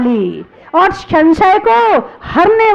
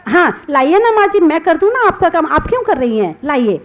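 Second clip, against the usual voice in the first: sweet, loving. Retold or imitated. New bride sweetly offers to help her mother-in-law, lightly imitated. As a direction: coax gently like an eager new bride. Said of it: "बड़े प्यार से बोलती है".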